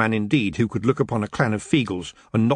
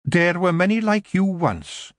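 slow, hushed Scots mother; a solemn recognition; quiet Kelda; 8 semitones higher, slower than usual. Acted. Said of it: "Jeanie said quietly".

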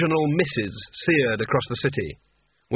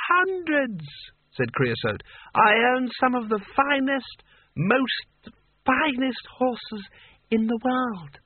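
high, slow, boastful tipsy sultan; drunk sultan voice; 10 semitones higher, much slower than usual. A narrator's reading.

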